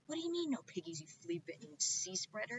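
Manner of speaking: high angry witch voice. Acted. Witch Gritch yelling at the farmer, angry. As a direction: yell it at the farmer.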